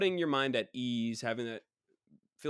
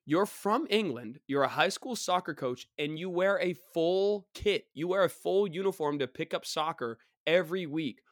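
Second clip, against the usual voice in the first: louder, higher mock tirade; exasperated rant; 4 semitones higher, 4 dB louder than usual. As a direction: lay into the absent opponent, leaning on the words. Mock tirade at absent English player.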